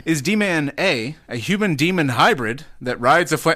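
lightly put-on dramatic read; adopted announcer voice. Host reading a quiz option, mild dramatic announcer voice. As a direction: announce each option with swinging pitch. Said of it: "I just adopted that voice".

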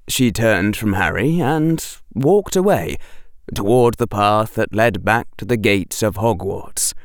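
plain reading voice

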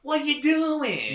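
high, loud, slow Boston yell; loud Boston accent. Retold or imitated. Podcaster imitates the actor's excited Boston yell. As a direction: bellow it in a thick Boston accent. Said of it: "And then he has".

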